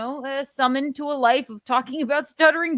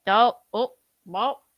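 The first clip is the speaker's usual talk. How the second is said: Shuli impression; 3 semitones lower than usual. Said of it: "I could be Shuli all day".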